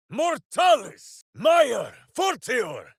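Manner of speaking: high, loud incantation shout; battle cry. Acted. Ranger casting in battle, loud shouted incantation. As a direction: roar the spell out, slowly.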